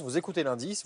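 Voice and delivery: normal talking voice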